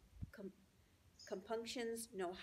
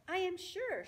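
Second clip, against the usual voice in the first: high, loud, formal opening; stately little spider voice; gracious spider Charlotte; 11 semitones higher, 5 dB louder than usual. Acted. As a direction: begin a polite announcement.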